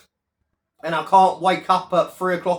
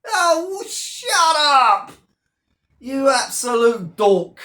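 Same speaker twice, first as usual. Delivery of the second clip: dismissive; 4 semitones higher, slower than usual. Real, not acted. Dismissing Paul's gloating.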